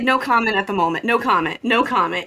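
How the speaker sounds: brisk, clipped star brushing off press; celebrity dodging paparazzi. Retold or imitated. Boy walks past family like a celebrity ducking paparazzi, brisk. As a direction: wave off the reporters quickly. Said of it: "like the paparazzi".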